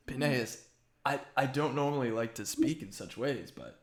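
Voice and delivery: lightly put-on accent for Cicero; mistaken character accent. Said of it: "I don't know why I'm doing this accent".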